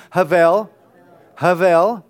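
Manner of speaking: "Havel" with the weight on -VEL; stress on last syllable. Shown as a demonstration. Preacher leads congregation in Hebrew practice, "Havel" stressed on the last syllable. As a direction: say "Havel" leaning on its second syllable. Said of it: "You're gonna emphasize the last, uh, syllable".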